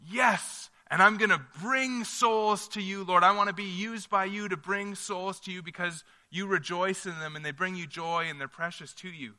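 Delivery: high, eager yes to God; eager believer. Acted. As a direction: answer God with keen resolve. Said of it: "we should go".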